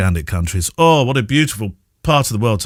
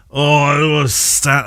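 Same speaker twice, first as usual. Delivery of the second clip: put-on half-hearted drunk Newcastle fan accent, pitched up; attempted Newcastle accent; 5 semitones higher than usual. Tipsy Newcastle fan complaining about the queue, in an attempted accent. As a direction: have a poor go at a Newcastle accent. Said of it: "I can't do the accent".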